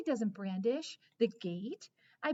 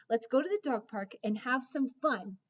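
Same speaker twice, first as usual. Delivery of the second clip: eager bark; 3 semitones higher, 5 dB louder than usual. Acted. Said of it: "I bark, cocking my head".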